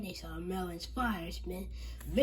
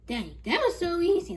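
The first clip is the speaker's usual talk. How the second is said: laughing; 11 semitones higher, 11 dB louder than usual. Acted. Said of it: "laughed George".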